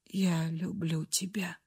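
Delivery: еле слышный шёпот; прошепчи на последнем вздохе; шёпот умирающего. A narrator's reading. Умирающий признаётся. (умирающий Ренулф благодарит Фрею: шёпотом)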